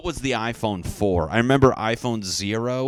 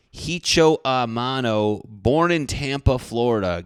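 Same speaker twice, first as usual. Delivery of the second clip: mock grand reading; 5 semitones higher, 5 dB louder than usual. Reading the beer label aloud.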